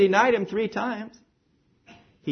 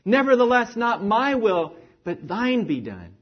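crying out; 4 semitones higher than usual. Retold or imitated. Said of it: "he cried out".

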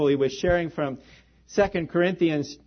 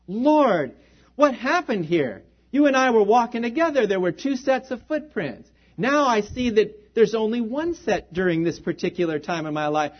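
upset pleading man; 3 semitones higher than usual. Retold or imitated. Man in the poem questions the Lord, upset and pleading. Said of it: "he was so upset".

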